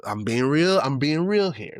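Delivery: normal talking voice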